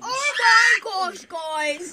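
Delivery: high, slow screaming; youtuber scream. Acted. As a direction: scream for the camera.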